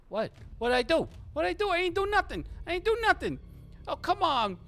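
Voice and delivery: high, loud protesting wannabe; squawked, panicky denial; whiny protest. Acted. Mo protests to DeLuca's men.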